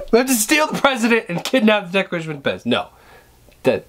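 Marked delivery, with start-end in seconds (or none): 0.1-2.7 mock angry Cage. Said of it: "He's kinda angry and loud like this".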